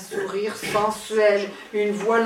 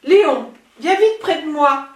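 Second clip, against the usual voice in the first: louder seductive call; breathy vintage purr; 4 semitones higher, 6 dB louder than usual. Acted. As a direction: call him over, sultry. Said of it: "la voix langoureuse".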